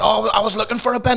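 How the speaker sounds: mock the man's lame excuse; imitating lying litterer. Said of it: "he said".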